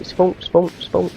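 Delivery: high, pressing repeated spawn; urgent urging. Real, not acted. Urging respawn mid-battle.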